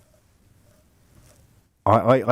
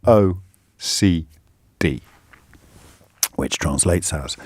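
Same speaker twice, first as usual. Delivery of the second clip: reading aloud; 3 semitones higher than usual. Acted. Host reads article aloud.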